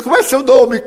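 put-on boy calling out. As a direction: shout the question across to the orphans. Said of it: "E ficou gritando".

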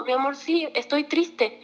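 a touch of motherly softness; gentle admission. Acted. Mother admitting to her child she is sad, gentle honesty.

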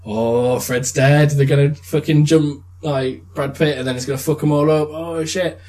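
hyped-up, quick viewer rattling off predictions; getting carried away with the hype; excited. Retold or imitated. Viewer imagining the coming fight, excitedly.

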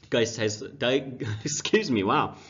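rough, scratchy sore-throat voice; hoarse voice. Real, not acted. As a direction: talk through a raw hoarse throat. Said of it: "Got a very rough throat right now".

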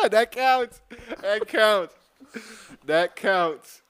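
high excited repeat, fading down. Real, not acted. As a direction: insist gleefully, settling down.

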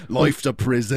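hammed-up Australian; mock Australian accent. Second comic playing an Australian, mock Australian accent. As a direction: toss it off in fake Australian. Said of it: "in Australia, same thing".

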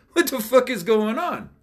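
high-pitched exasperated boss; mock bewilderment. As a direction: retell it as a high, incredulous outburst. Acts out boss after panicked calls.

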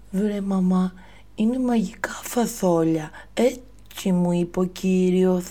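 put-on a child insisting to his mum; Jack pleading. Jack defending the beans to his mother, high lisping boy voice. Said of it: "είπε, παιδιά, ο Τζακ".

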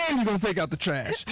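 can't hold back the giggle; laughing through it. Real, not acted. Host retelling dad's line to cohosts, laughing. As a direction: quote broken up by laughter. Laughing while quoting dad.

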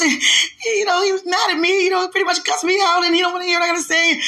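high, loud, rushing complaint; worked-up rant. Retold or imitated. Telling a friend he cussed her out, worked-up. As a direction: pour it out in a high, excited rush.

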